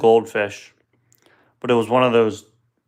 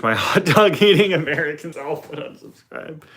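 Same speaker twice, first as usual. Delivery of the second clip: put-on light, half-joking British accent; a hint of British accent for the Americans; teasing mock British accent; 4 semitones higher than usual. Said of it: "Did I do a British accent?".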